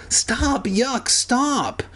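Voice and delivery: high-pitched squealed protest; hammed-up disgusted plea; acted protest. A narrator's reading. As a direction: squeal it as if fending off a dog. Acted struggle with licking dog.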